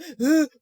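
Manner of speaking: high, loud breath on the edge of tears; imitated panicked gasping. Mother imitating her pinned son, panicky mock gasps. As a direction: gasp like a boy about to cry. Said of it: "he was about to cry".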